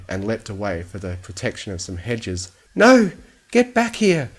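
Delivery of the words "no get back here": loud high cry of no, get back here; shouted. Acted. Fluttershy shouts after the runaway bunny, loud and high. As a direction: yell after the fleeing rabbit. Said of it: "she shouted".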